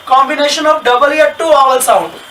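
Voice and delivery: very slow, word by word for students to write; dictating a definition to students; slow dictation. Shown as a demonstration. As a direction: spell it out slowly like dictation. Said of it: "teacher dictating a definition".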